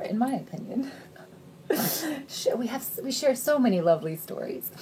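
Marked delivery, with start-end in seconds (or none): 3.0-4.7 dry, sarcastic aside. Real, not acted. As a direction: say it with an ironic edge. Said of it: "I'm being very sarcastic".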